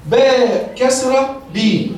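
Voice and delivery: "باء كسرة بي" said very slowly, each part separate; slow spelling. Shown as a demonstration. Teacher drills the kasra sound for trainees, very slowly. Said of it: "كسرة يعني إيه".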